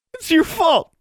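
very high, loud blaming scream; anguished yell. Acted. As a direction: scream the blame out. Mary breaks down blaming.

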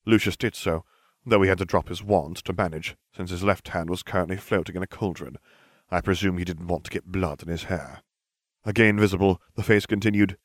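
usual speaking voice

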